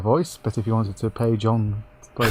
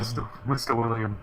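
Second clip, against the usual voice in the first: robot voice; 7 dB quieter than usual. Real, not acted. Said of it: "now he sounds like a robot".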